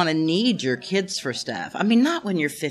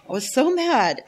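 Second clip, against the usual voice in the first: louder emphatic repeat; 5 semitones higher, 4 dB louder than usual. Real, not acted.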